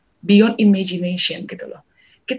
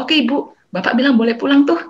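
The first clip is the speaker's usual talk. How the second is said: cheerful counselor; 5 semitones higher, 4 dB louder than usual. Retold or imitated. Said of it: "Lalu Pak Vincent bilang".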